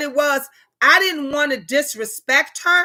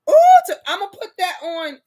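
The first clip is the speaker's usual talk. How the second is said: quick, loud and bright; excited; 7 semitones higher, 6 dB louder, faster than usual. Real, not acted. Promising a viewer a reading, excited and fast. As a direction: rush it out with delight.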